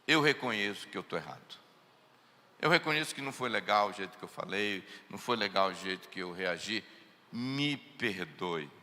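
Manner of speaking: low, soft, gentle apology; humbly asking a wife's forgiveness; soft sincere apology. Shown as a demonstration. Pastor showing a husband how to apologise, soft and low. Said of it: "se a gente parasse e falasse assim".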